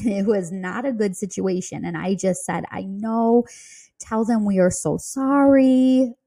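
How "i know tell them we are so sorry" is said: a touch of fake heartbreak, pitch lifting at the end; hammed-up sorrow. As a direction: ham up the sympathy for the agent. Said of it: "I hammed it up".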